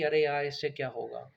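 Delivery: loud scoffing "अरे यार!" then a dropped question; mock parent scoffing at a child's hobby; dismissive parent. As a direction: brush the kid's hobby off loudly.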